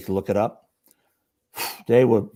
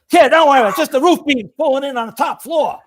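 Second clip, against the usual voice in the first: retold calling out; 12 semitones higher, 5 dB louder than usual. Veteran calls over fire noise.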